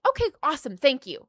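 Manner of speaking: a touch of an impressed director; lightly imitated delight. Director thanking the student for the accent, mildly excited.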